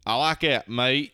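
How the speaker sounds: a hint of an Australian accent; mock Australian approval, mate drawn out. Redneck imitating Australian Jesus in an Australian accent. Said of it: "That's a real good Australian accent".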